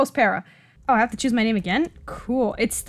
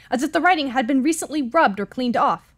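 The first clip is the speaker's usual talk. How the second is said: usual speaking voice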